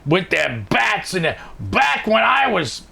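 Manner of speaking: put-on slow, growling old-school coach; gruff coach voice. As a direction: bark it like a high school football coach. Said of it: "being this guy".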